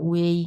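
"ওয়েই" as a glide from u through e to i; teacher's careful model of "ওয়েই"; pronounced as uei. Shown as a demonstration. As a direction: say "ওয়েই" with the middle e sounded. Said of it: "এটার উচ্চারণ হবে যেটা".

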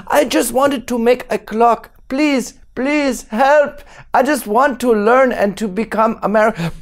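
mock-pitiful plea for help; pleading schoolboy. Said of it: "And he's like".

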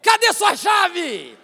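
loud, high, drawn-out demand; wife's irritated yell. Retold or imitated. Imitating wife scolding husband at the door, loud irritated yell. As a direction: holler it slowly, full of impatience.

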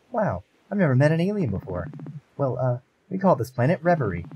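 amazed creature. Acted. Creature voiced in story.

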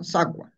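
sacua with an s onset; s variant. Shown as a demonstration. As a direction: say sacua as "SA-kwa". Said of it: "podemos pronunciar".

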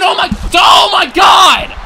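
high, loud stunned cry; real shock at ringside; shocked shout. Real, not acted. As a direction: explode in disbelief. Table smash shock.

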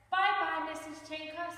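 put-on high child-character farewell, loud at first; calling goodbye back. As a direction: call goodbye back to the librarian. Carlo calls goodbye back.

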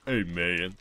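mild hammed-up greeting; put-on voice demo. Shown as a demonstration. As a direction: show off the switchable voice. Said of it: "different black voice tones".

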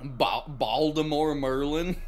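put-on slow, amused try at a Baltimore accent; attempted Baltimore accent. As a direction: try "Baltimore Merlin" as a Baltimore local. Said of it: "I'm probably still fucking it up".

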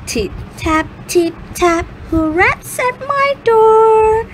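put-on creaky old witch asking. Witch voice in fairy tale.

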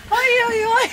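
gasping after an icy dip; barely getting words out from cold; breathless from cold. Real, not acted. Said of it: "It's, like, so hard to talk".

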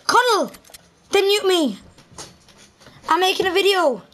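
annoyed shout. Real, not acted. Yelling at brother interrupting.

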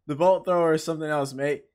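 scratchy imitation of the merchant. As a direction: rasp it like the shopkeeper. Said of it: "That's a scratchy voice".

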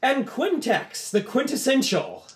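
high, slow, drawn-out name reveal; announcer's call. Acted. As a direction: proclaim the winner with a flourish. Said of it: "and he goes".

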